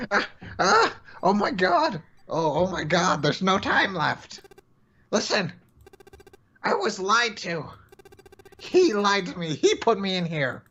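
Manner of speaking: frantic, desperate shouting; panicked yelling. Acted. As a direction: scream the truth before time runs out. Ninth man's final panicked cries.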